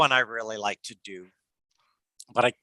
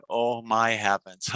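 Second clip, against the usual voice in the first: mock shocked at the paycheck, then high laughter; laughter yoga payday skit; 11 semitones higher, 5 dB louder than usual. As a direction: act out seeing a tiny paycheck. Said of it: "do a demo of a laughter yoga exercise".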